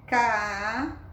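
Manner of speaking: CASEIRO slowly as CA, ZEI, RO; syllable by syllable. Shown as a demonstration. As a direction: sound out CASEIRO in three separate pieces. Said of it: "aqui nós temos a palavra".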